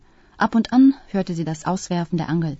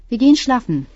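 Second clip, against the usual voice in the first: higher, louder announcement; announcing; 5 semitones higher, 6 dB louder than usual. A narrator's reading. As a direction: announce it firmly, pitched up. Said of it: "verkündete Nina". (laut und bestimmt verkündet)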